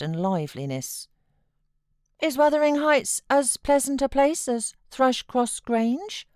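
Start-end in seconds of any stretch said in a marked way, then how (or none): 2.2-6.3 put-on high, louder whining boy's voice; a fretful child pleading to stay; sickly child. A narrator's reading. Boy refusing to leave his uncle, high fretful whine. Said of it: "he inquired".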